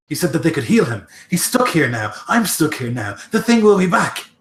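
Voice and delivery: a frightened orc working himself into a panic; agitated orc. Acted. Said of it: "you can see him getting, like, very agitated".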